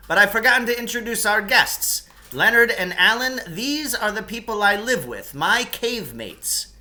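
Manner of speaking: high, hearty introduction, slowing at the end; Lance introducing guests. Acted. Lance introducing the boys to his cave mates, high and hearty. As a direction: present the guests grandly.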